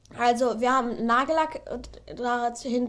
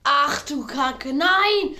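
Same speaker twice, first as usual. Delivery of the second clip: dismayed outcry; 3 semitones higher, 4 dB louder, much slower than usual. Real, not acted. Spin lands on bad dare.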